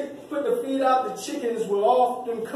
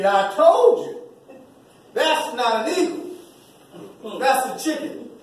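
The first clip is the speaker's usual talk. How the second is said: laughing gloat; slower than usual. Retold or imitated. Farmer laughs, proven right.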